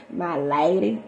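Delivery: lightly imitated California suitor; a touch of California accent; California-style talk. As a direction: put on a hint of California in the voice. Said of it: "that's the kind of sound like California".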